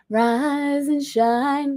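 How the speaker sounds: slow, lightly sung-out wake-up; a hint of a sing-song mom; mom's wake-up call. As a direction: stretch it out like a mom waking her kids. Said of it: "That's what my mom used to do".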